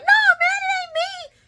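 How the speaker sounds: loud, squealed mock protest; high-pitched denial. Vlogger showing Brick's wrong way to deny it, high-pitched. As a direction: raise your voice way up in denial. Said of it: "raising your voice all high-pitched".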